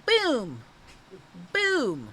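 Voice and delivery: excited playful "Boom!" yell. Pretend. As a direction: punch out "Boom!" like a hype call. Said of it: "Can we yell".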